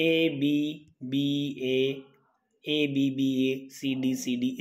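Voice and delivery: slow, level letter-by-letter recital; reciting letters. Shown as a demonstration. Teacher giving the Petrarchan rhyme scheme, slowly reciting letters.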